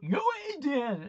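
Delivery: high, hammed-up Rocky accent; dodgy accent. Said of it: "in a dodgy accent".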